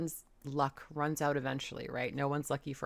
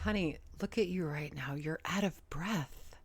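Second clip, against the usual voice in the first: whispering. Real, not acted. Chiding commenter aside.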